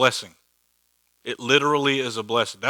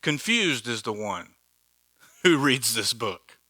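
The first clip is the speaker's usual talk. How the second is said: mock modern verse. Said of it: "it would probably sound like this".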